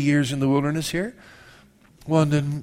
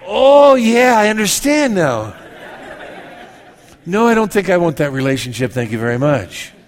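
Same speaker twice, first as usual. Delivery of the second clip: mock hasty refusal; 3 semitones higher, 6 dB louder than usual. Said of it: "That's about as quick as I answer".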